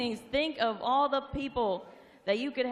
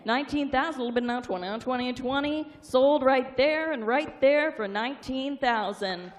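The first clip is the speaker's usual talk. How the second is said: rapid rolling auction chant; auctioneer. Real, not acted. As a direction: rattle off the bids like an auctioneer.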